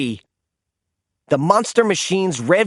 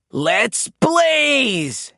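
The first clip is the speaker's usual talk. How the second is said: higher eager rallying cry; shouted; 7 semitones higher than usual. A narrator's reading. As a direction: call it out as he speeds off. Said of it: "he shouted".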